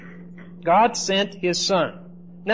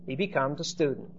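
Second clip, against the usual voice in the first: softer, dropped-down restatement; a low, hushed echo of the line; quiet repeat; 4 semitones lower, 8 dB quieter, faster than usual. Shown as a demonstration. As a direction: say it again under your breath. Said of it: "teacher repeats example sentence".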